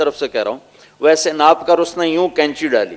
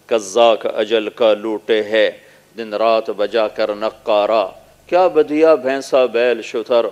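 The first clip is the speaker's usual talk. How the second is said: poem recitation; 3 semitones lower than usual. Acted.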